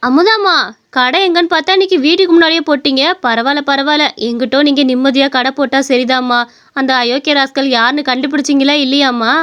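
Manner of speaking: customer voice. Acted. Customer visits grandma's new stall.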